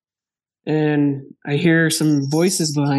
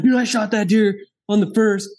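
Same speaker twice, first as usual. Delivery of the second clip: pitched up and urgent, a bit frantic; freaking out; 5 semitones higher than usual. Retold or imitated. Hunter begging the guide for his deer, frantic. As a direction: blurt it out like the deer might vanish. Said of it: "just freaking out".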